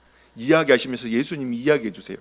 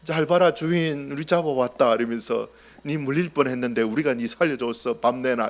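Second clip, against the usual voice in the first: a hint of a smug cat, soft; lightly voiced cat; 3 semitones lower, 6 dB quieter than usual. Cats presenting a snake to the pastor, smug. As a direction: play the cat bragging about its catch. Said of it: "제가 통역해드리면요".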